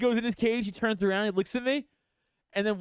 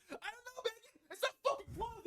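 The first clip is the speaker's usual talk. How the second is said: high, breaking, half-laughing complaint; laugh-crying at Megan; 12 dB quieter than usual. Retold or imitated. Venting at Megan over the pet camera, high and laugh-crying. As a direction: squeak it out through laughter and tears. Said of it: "I'm like".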